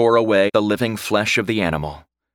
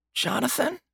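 frail, soft, high call; weak voice; 6 dB quieter than usual. A narrator's reading. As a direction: call out weakly from a sickbed. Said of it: "a weak voice called out".

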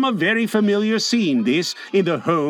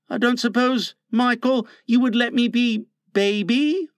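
heavily; 6 semitones higher than usual. A narrator's reading. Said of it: "he said heavily".

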